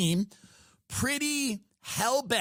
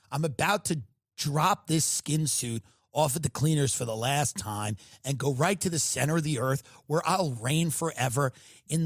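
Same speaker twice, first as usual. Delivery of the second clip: Lindsey Graham impression; 3 semitones lower than usual. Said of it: "Lindsey comes out and he goes".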